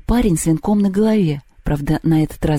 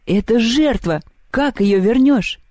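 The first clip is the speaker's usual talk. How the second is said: high, incredulous protest; astonished; 7 semitones higher, slower than usual. A narrator's reading. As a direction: protest in amazement, drawing out the question. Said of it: "поразился он".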